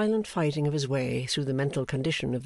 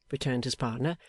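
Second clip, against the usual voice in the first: ordinary delivery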